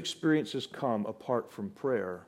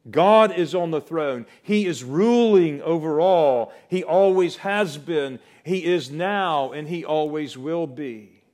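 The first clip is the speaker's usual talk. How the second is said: loud, raised preaching voice; emphatic proclamation; 3 semitones higher, 6 dB louder than usual. Real, not acted. Preacher declares God is on the throne, emphatic proclamation. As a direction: proclaim it forcefully, easing at the end.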